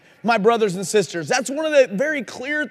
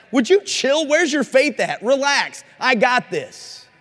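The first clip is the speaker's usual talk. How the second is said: casual, breezy reassurance, a bit higher and brighter in pitch; laid-back Jesus; 3 semitones higher, slower than usual. Retold or imitated. Jesus telling the freaked-out disciples to relax, casually. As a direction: brush off their panic like it's nothing. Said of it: "He's like".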